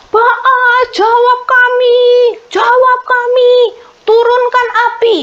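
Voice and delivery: hammed-up frenzied crowd calling; frantic shouting plea. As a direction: cry out to Baal with everything. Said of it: "sekarang berteriak-teriak".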